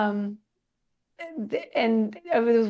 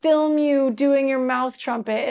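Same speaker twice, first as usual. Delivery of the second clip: laughing Joseph quote; 4 semitones higher, 5 dB louder than usual. Retold or imitated. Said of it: "he's got a Southern accent, which I'm not gonna do".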